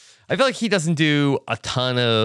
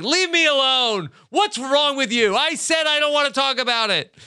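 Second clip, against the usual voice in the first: whiny high brush-off; mock huffy brush-off; 11 semitones higher than usual. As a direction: play the grumpy boss pushing her away, pitched up.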